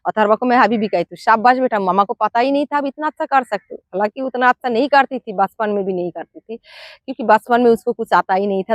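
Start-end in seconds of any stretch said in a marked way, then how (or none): 1.2-3.8 higher, put-on sweet praising tone; artificial sweet praise. Mother praising her son Atharva during lessons, sweet put-on praise. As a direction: lay on the praise, sugary and bright-eyed. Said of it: "थोड़ा सा artificial प्यार दिखाना है".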